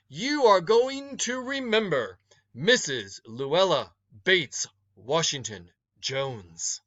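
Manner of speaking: stern matron naming herself with pride; warning older woman. Acted. Woman threatens the boy.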